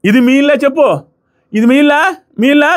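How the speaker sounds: pitched high, mock indignant challenge; retold loud retort. Vlogger retelling Madhuri confronting Divya, mock shouting high. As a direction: fling the question back like a heated housemate. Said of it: "పెద్దగా".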